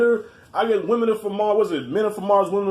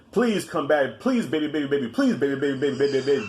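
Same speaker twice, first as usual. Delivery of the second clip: begging; 6 semitones lower than usual. Retold or imitated. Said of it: "I did a lot of begging".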